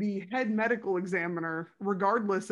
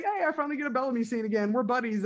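happy actor voice; 3 semitones higher, much faster than usual. Retold or imitated. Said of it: "Lou just like".

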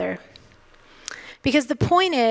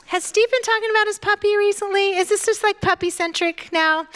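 playful teasing; 7 semitones higher than usual. Real, not acted. Teasing the pastor about puppy.

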